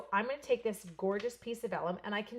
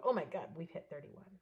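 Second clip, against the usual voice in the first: mock whisper; 2 semitones lower than usual. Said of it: "someone's gonna go".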